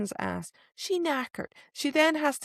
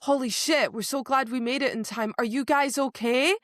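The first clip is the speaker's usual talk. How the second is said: mock-amazed reaction, rising higher and louder; Azriel and Mor; 5 semitones higher, 4 dB louder than usual. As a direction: act out escalating shock and concern. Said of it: "where was the response of Azriel and Mor going".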